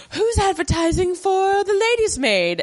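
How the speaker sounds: high, put-on witch voice; high witchy voice. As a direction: squeak it like a sly witch. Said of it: "And she's like".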